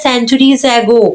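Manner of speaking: slow, careful, mildly lofty; careful pronunciation. Acted. Teacher acting out Tommy's words to Margie, slow and careful. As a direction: pronounce each word with deliberate care. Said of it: "बहुत ही carefully होके pronounce करता है".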